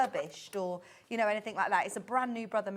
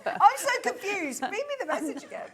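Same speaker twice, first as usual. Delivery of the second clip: laughing; 8 semitones higher, 5 dB louder than usual. Real, not acted. Laughing at the fox message.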